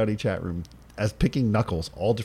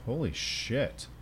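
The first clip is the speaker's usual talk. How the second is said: surprised; 3 semitones higher, 7 dB quieter, much slower than usual. Real, not acted. Reacting to Bitcoin doubling.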